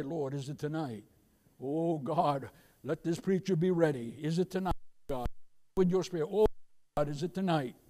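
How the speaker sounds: soft, hushed bedtime plea to God; whispered-down prayer at night. Retold or imitated. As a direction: pray it quietly as if lying in bed. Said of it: "But I always say".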